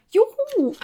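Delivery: high, gleeful little whoop; jubelnd. A narrator's reading. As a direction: cheer it out on a high, held note. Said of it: "jubelt Leo Lausemaus". (hoher Jubelruf)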